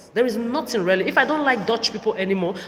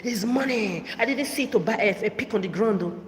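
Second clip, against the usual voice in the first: imitating mother; 2 semitones higher than usual. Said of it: "That's how she, she always do".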